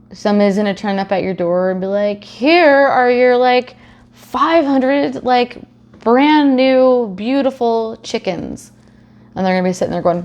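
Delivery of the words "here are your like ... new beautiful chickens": mock cheerful. Delivery person announcing chickens.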